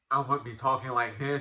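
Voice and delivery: imitating a stuffed-up nose; congested voice. Dad showing how congestion would have made him sound, mock congested voice. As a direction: talk as if bunged up with a sinus cold. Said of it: "I was just so congested".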